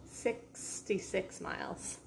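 slow, softened, stretched-out syllables; drawn-out correction. Pretend. Correcting a partner who misheard the distance, slow mock answer. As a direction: stretch out every syllable, teasingly.

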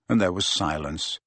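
ordinary delivery

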